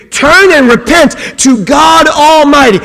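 loud, slow call to repent; preached at full force; fervent shout. Acted. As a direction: thunder it out to the crowd.

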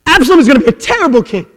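loud and fast, driving it home; fast hammered repeat. Acted. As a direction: rattle it off as a hard punch. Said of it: "repeated with different force".

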